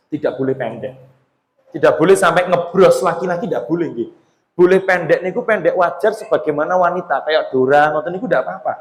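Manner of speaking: ordinary talk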